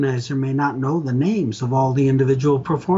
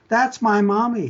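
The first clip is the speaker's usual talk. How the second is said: put-on much higher, little-girl voice; small child voice; 9 semitones higher than usual. Little girl tells caller about mommy, childlike. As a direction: play the little girl on the phone. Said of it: "said the little voice".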